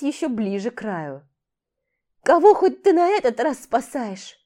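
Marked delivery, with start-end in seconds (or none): 2.2-4.4 strained voice. Acted. Dariana straining.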